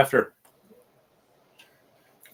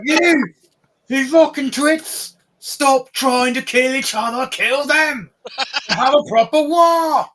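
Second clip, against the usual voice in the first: high, loud, scolding goblin voice; high creature voice berating its own troops; furious goblin boss; 13 semitones higher, 4 dB louder than usual. Acted. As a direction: screech at the squabbling goblins, slowly at first.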